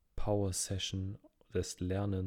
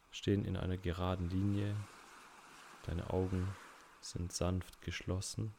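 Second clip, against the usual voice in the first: unhurried meditation guide with long pauses; measured, calm relaxation-exercise voice; guided relaxation. Acted. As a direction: ease the listener into rest, phrase by phrase.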